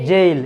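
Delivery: জেইল with "e" gliding into "i"; correct diphthong. Shown as a demonstration. Teacher models the example word, gliding জেইল. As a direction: glide through the vowel of জেইল before the l. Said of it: "কি হবে উচ্চারণ এই ওয়ার্ডটার?".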